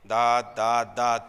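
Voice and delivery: loud, irritated repeating of दात; husband snapping loudly at his wife about his tooth; angry outburst. Retold or imitated. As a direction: blurt दात over and over in annoyance. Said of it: "मी चिडून म्हणालो".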